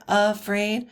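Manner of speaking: "Afraid" with stress on the second syllable; light "A", strong "fraid" in "Afraid"; iambic stress. Shown as a demonstration. Teacher contrasting two feet, "Afraid" end-stressed. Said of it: "you can see how it's a little different".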